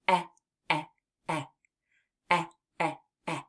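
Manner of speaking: short "eh" repeated with pauses; short eh together. Shown as a demonstration. Teacher leads the children saying "eh" together. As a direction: lead the class in "eh". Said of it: "And let's say".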